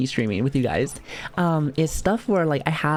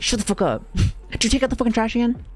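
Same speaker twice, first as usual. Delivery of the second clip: angry father; faster than usual. Retold or imitated. Voicing angry father in story.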